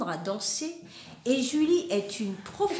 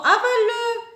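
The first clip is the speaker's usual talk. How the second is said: even higher and louder repeat; louder order; 11 semitones higher, 8 dB louder than usual. Acted. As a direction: push the command harder. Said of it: "ordonne maman".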